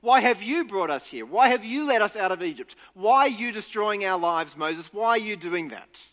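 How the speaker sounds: grumbling Israelites confronting Moses, mildly accusing; mock complaint. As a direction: voice the grumbling crowd with a mild edge. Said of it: "they grumble against Moses and they say".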